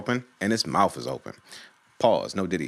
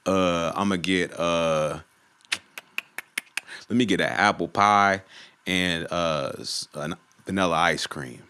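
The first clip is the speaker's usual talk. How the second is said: lightly imitated slow, hesitant orderer; oblivious customer; 3 semitones lower than usual. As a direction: take your time ordering, pitch sinking. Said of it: "This nigga's like".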